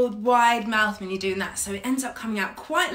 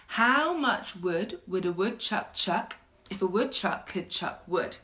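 tongue twister. Shown as a demonstration. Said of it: "a really common tongue twister".

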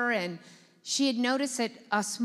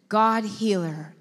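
sleepy mumble; 4 semitones lower, 4 dB louder, slower than usual. Retold or imitated. Sleepy husband's mumbled prayer.

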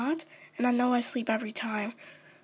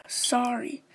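whispered sorry; 2 semitones lower than usual. Acted. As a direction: mumble the apology under your breath. Told to say sorry.

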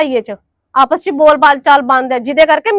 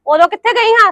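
indignant demand; 6 semitones higher than usual. Acted. Angry rhetorical demand.

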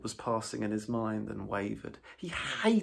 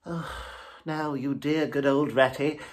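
higher, louder, coaxing plea; imploring Toad; 5 semitones higher, 6 dB louder than usual. A narrator's reading. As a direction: wheedle your friend into coming. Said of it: "said Toad imploringly".

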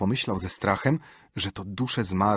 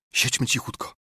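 breathy unvoiced whisper of siedźmy cichutko; 4 semitones higher than usual. Repeated as whisper.

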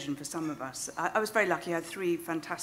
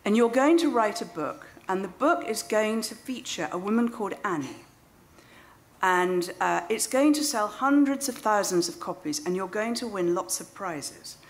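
raised, projected fortune-telling, easing down towards the end; lightly acted psychic making grand predictions; psychic's prophecy; 3 semitones higher, 4 dB louder than usual. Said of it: "And then she said".

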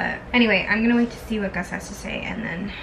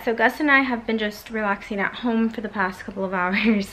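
breathless and puffing; talking while catching breath; 3 dB louder than usual. Real, not acted. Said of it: "I'm a little out of breath right now".

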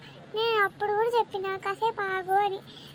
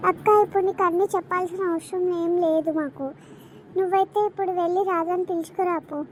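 lower, louder dismissive scolding; rude snapping; 6 semitones lower, 4 dB louder than usual. Acted. Daughter orders the elder daughter-in-law to fetch Radha, loud and lower. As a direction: brush her off sharply.

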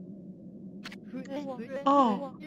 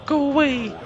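shout; 4 semitones higher, 6 dB louder than usual. Acted. Shouting at a pestering voice.

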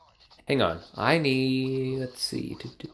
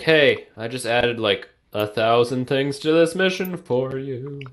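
Yogi Bear voice. Retold or imitated. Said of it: "Why did you sound like Yogi Bear just there?".

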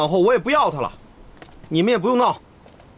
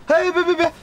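hurried protest; 9 semitones higher than usual. Acted. Hurriedly stopping the servants.

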